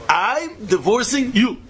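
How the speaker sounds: slow, spaced-out words; measured pronouncement, each word set apart; deliberate declaration. Acted. Acts out the spoken declaration.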